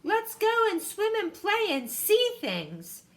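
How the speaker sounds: happy. Acted. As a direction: invite them to play, full of joy. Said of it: "he said happily".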